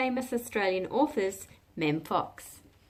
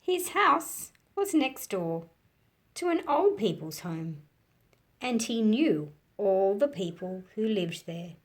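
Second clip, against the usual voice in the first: louder, animated storybook reading; story narration; 3 dB louder than usual. A narrator's reading. Teacher reading a picture book to children, animated storytelling. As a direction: bring the picture book alive for kids.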